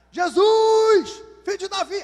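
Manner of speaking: a high, loud cry across the crowd; desperate shout. Acted. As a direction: yell for Jesus as if he might be far off. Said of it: "Começou a gritar". (grito desesperado e agudo)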